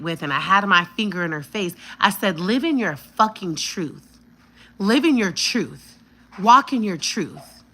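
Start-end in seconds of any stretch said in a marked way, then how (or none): 2.4-7.6 slow, emphatic, punched commands; re-enacted forceful telling off; retold confrontation. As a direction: drive each phrase home, loud and slow. Retells finger in her face.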